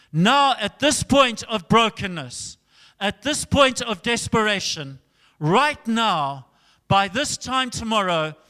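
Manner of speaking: forceful preacher voicing a prophet; prophetic proclamation. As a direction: proclaim it firmly to the king. Acts the prophet's proclamation to king.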